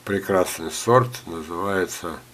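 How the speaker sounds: normal talking voice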